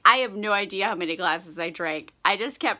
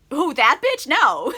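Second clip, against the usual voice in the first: laughing dismissal; 4 semitones higher, 6 dB louder than usual. Retold or imitated. Harriet dismissing Churchill, laughing.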